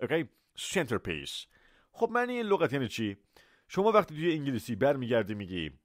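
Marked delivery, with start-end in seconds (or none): 0.6-1.5 centerpiece low and soft, t sounded; ordinary T. Shown as a demonstration. Teacher repeating it for all listeners, ordinary T. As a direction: keep the t audible in centerpiece.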